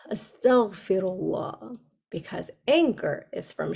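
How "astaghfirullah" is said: calm Astaghfirullah. Shown as a demonstration. Teacher shows children a calming phrase. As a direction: say Astaghfirullah gently after the breath. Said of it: "You can say".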